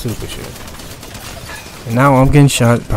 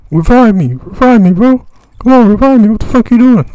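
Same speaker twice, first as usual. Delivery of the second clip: put-on loud, much higher pleading white-boy voice; whiny white boy voice; 12 semitones higher, 11 dB louder than usual. Mock teammate begging to be revived, loud high whiny voice. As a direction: beg for a revive like a panicked teammate. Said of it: "my white boy voice".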